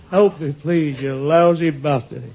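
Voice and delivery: slow, fed-up pleading with a bite; exasperated plea. Acted. A broke man on his knees cursing God, slow and fed up. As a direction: beg and curse God in one breath.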